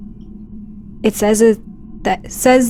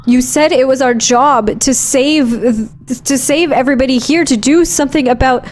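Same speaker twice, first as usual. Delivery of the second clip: higher-pitched, hurried pleading; distressed protest; 4 semitones higher than usual. Acted. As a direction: argue that they must not give up. Acted protest at abandoning Gertie.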